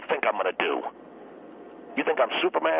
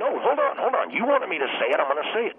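heated yelling; 10 semitones higher, faster than usual. Acted. Guest yelling at the host to let him finish, heated shout. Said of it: "You're screaming, you're yelling".

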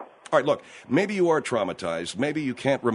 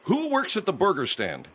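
exasperated, higher-pitched questioning; raised voice; 4 semitones higher than usual. Real, not acted. Host repeating a question to an evasive caller, raised voice. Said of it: "you to raise your voice with me".

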